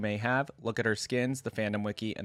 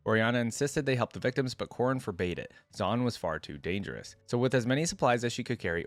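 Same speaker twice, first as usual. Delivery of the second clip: story narration. A narrator's reading. YouTuber reading Oriana's biography to viewers, story narration. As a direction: clear read-aloud biography voice. Reads the champion's story aloud.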